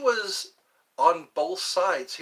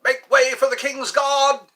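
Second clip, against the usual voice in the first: loud, high-pitched sentry command; royal guard yell; 10 semitones higher, 10 dB louder than usual. Acted. King's Guard warning off tourists, loud commanding yell. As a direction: shout it like a guard clearing a path. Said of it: "those are the, um, Imperial Guards".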